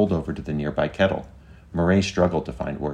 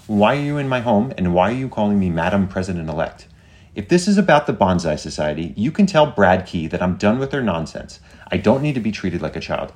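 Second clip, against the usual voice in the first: higher, louder indignant questioning; indignant demand; 4 semitones higher, 5 dB louder than usual. Acted. Old woman confronting an agent in her home, indignant. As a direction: tell off an unwanted visitor, voice raised.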